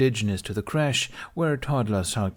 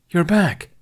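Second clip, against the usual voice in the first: higher and louder, delighted; excited cry; 9 semitones higher, 8 dB louder than usual. A narrator's reading. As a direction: burst out with joy at his return. Padawan thrilled Ben returned.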